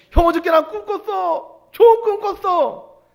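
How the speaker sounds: very high, loud mock-excited little brother; gleeful boasting. Joseph crows to his brothers about a dream, gleeful boasting. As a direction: crow it out in a high imitation voice.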